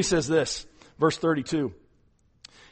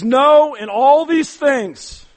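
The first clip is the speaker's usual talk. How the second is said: slow proclaim; 8 semitones higher, 8 dB louder, much slower than usual. Real, not acted. Preacher announcing the verse.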